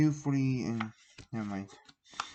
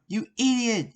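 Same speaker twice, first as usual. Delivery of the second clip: high, loud insult; yell; 10 semitones higher, 4 dB louder than usual. Acted. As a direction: yell it at him. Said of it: "yelled Terry".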